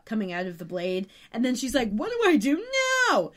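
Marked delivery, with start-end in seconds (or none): 1.9-3.3 higher-pitched imitation of a clueless plea; mock helpless panic. Paige asks Phoebe what to do, mock helpless. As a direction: play up a flustered, helpless question.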